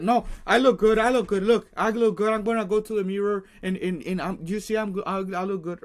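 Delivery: confident self-talk. Retold or imitated. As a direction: shout down the critic with loud, high confidence. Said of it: "I'm like".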